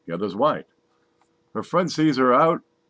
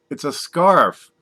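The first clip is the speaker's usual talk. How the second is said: slow explaining; 4 semitones higher, 6 dB louder, much slower than usual. Acted. Blonde correcting cop.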